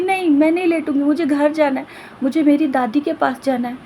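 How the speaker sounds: high, fast pleading protest; desperate refusal. Acted. Girl refuses to rest, begs to go to grandmother. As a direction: insist on going home, upset.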